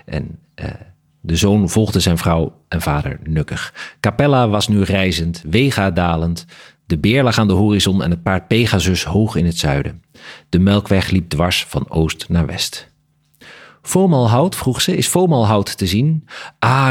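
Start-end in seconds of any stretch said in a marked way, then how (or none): 1.2-16.3 measured literary read-aloud with lightly voiced dialogue; story narration. A narrator's reading. Author reading a bat story fragment to the interviewer, story narration. 16.6-16.9 lifted cry of delight, narrated. A narrator's reading. Bat father delighted by his daughter-in-law's question, delighted. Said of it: "met een stem vol verrukking".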